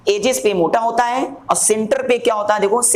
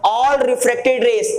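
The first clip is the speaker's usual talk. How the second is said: higher, stretched-out key phrase; slow dictation; 4 semitones higher, much slower than usual. Shown as a demonstration. Teacher repeating the key phrase for students, slow dictation. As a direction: draw out each word deliberately.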